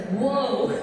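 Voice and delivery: a high, loud, stunned whoa; amazed whoa. Retold or imitated. Singer stunned to meet the fan's baby, loud amazed whoa. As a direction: let it burst out in disbelief. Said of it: "and I was like".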